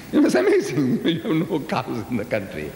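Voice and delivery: laughing in amused disbelief; amused laugh at the missing cows. Real, not acted. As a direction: chuckle through the amazement.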